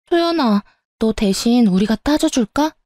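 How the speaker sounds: a friend calls Soyeon's name high before offering to confront; friend calling out. Acted. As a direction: pitch the name up high, then offer to fight for her.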